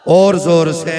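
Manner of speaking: loud, drawn-out call to the crowd; rallying shout. Real, not acted. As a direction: belt it out to whip up the congregation.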